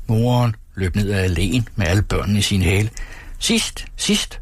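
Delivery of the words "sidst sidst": high, breathy call while running; playful high-pitched call; mock shout. A narrator's reading. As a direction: cry it out high as she runs off. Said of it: "råbte hun".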